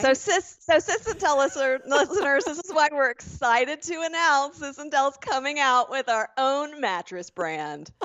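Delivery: infomercial pitch. Acted. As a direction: sell it like an infomercial. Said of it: "this is why we love infomercials".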